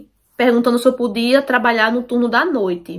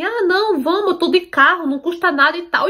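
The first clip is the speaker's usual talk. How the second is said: higher-pitched mock coaxing; pressuring; 5 semitones higher than usual. Coworker pushes her to accept his ride, coaxing. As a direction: imitate someone pressing for a yes. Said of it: "me impressionando pra eu aceitar a carona".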